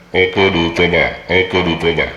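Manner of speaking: scrambled robotic radio voice; garbled robot sound through the radio; half robot voice. Real, not acted. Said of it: "suaranya kayak robot ya".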